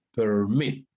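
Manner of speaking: "permit" con la fuerza en "mit"; acento al final. Shown as a demonstration. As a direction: carga la voz en la última sílaba de "permit". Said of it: "Al final". ("permit" acentuado al final: perMIT)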